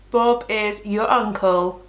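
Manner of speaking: slow, deliberate, with IS spelled out in full; slowly spaced-out catchphrase; emphatic restatement. Real, not acted. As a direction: stretch out "Bob is", word by word. Repeats phrase slowly, uncontracted.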